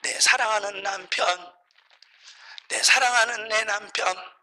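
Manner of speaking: mildly mimicked tearful pleading; tearful prayer. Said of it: "하면서 우는 거예요".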